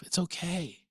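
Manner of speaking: reassuring. Real, not acted. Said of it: "And I just laugh".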